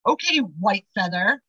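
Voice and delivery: slow, skeptical challenge; sarcastic. Retold or imitated. Testing her spirit guide to find the car, sarcastic. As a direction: address the guide slowly, with mock respect. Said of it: "very sarcastic".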